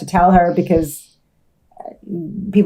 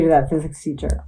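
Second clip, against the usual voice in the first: coughing fit; 2 semitones lower, 6 dB quieter than usual. Real, not acted. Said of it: "Sorry, I'm coughing so much".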